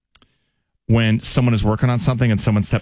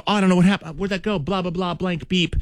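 mock flustered coworker; 8 semitones higher than usual. Imitating flustered coworker after show.

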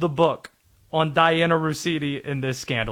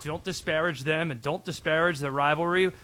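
put-on Boston accent; 2 semitones lower, 4 dB quieter than usual. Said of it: "Is that you trying to do a Boston accent?".

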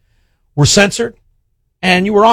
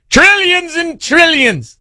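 slow, high, stretched out; drawn-out trillions; 10 semitones higher, much slower than usual. Acted. Mocking the profits of the Biden years, drawn out slowly. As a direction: draw out each trillion mockingly.

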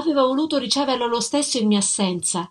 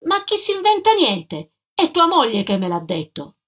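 sharp, much higher retort; annoyed doorkeeper snapping back, higher; irritated; 5 semitones higher than usual. Acted. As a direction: bristle back at the accusation. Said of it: "Irritata rispose subito".

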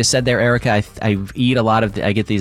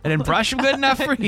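sarcastic. Retold or imitated. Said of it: "I'm gonna go brush 'em".

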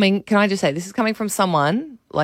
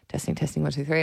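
nervous mic check; 8 dB quieter than usual. Retold or imitated. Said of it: "tap the microphone".

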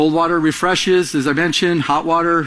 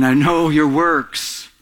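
slow scripture read; much slower than usual. Shown as a demonstration. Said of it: "reading scripture slowly".

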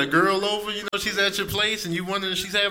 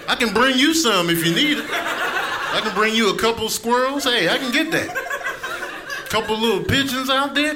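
raised, demanding voice of a hungry cat; yelling, indignant cat; 4 semitones higher than usual. Acted. Hungry cat confronting its roommate over an empty dish, indignant. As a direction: scold the owner, high and forceful. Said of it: "cats are yelling at you when they're hungry".

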